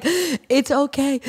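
slow, drawn-out imitation of consoling; mock reassuring man. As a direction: play a man trying to help. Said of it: "it's so funny when men try to, like, help you".

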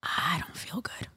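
slow, hushed, nearly voiceless; weak, drawn-out mock whisper; retold queasy whisper. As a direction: imitate him feebly saying he feels sick. Retold date feeling sick.

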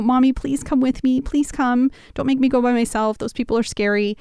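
a hint of a scared kid begging mommy; preacher mimics a clingy child to mock Barak; whiny child. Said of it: "like, your little one coming to you".

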